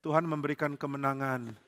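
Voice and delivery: soft, reluctant mock cheer; half-hearted cheer. Saul joins the cheer unwillingly, softly. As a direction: cheer because you must. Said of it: "Saul ikut-ikut".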